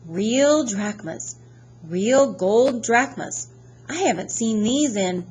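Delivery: put-on greedy British-accented gatekeeper, drawn out; strange British accent. A narrator's reading. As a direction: savour the coins in an odd British accent. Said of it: "his fingers hovered greedily over the coins".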